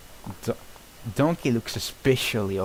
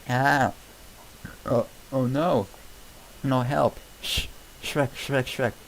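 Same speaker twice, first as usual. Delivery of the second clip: panicked cries; 5 semitones higher, slower than usual. Acted. Donkey sees ogre Fiona and yells for Shrek in panic. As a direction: panic and shout for help.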